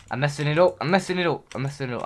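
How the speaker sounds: panicking. Real, not acted. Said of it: "I'm panicking".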